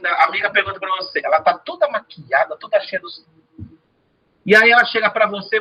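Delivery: normal talking voice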